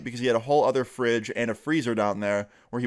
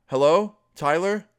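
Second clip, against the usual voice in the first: higher, louder, drawn-out questioning call; 6 semitones higher, 5 dB louder than usual. Retold or imitated. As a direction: call up the stairs to see who's there. Girl calls out to unseen person.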